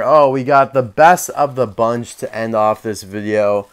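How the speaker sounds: mock-enthusiastic setup for a letdown; sarcastic fake enthusiasm. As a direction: feign delight at the best one. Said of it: "I am being so sarcastic now".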